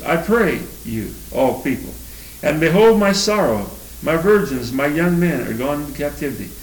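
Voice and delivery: mournful King James lament; solemn confession reading. Acted. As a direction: read it as the prophet owning the sins. Reads confession verses.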